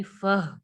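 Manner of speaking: फह ending on a breathed h; audible final h. Shown as a demonstration. Teacher points out the ha sound, audible final h. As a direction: let the h close फह audibly. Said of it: "हा की sound आएगी".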